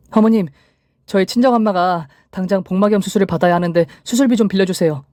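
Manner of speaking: high-pitched, acted urgent plea; urgent request. A narrator's reading. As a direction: ask anxiously for emergency help. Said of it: "급한 제 마음과 다르게". (다급하게 높은 목소리로 부탁)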